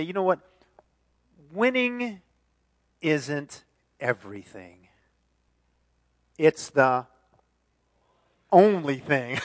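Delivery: long pauses before the punch; dramatic quote. Retold or imitated. Preacher quoting Lombardi with dramatic pauses. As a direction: build suspense, then land it. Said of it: "he would say".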